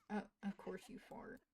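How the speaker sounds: a dry aside to yourself; muttered aside. Real, not acted. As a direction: mutter it under your breath.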